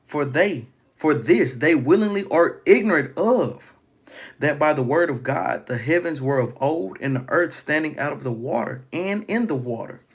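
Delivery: proclaiming the verse to the congregation; scripture reading. Acted. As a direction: declaim the verse from the pulpit. Reads scripture aloud, raised.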